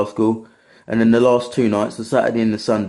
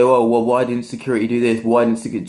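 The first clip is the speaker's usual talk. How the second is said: mock complainer; 4 semitones higher, 3 dB louder than usual. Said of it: "everyone will complain and say".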